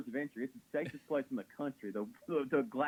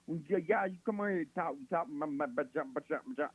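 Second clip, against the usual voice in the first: put-on backwoods Texas accent; 3 semitones higher than usual. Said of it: "talks like she's, like, a backwoods, like, Texas".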